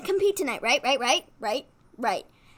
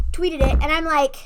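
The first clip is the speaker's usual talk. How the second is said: usual speaking voice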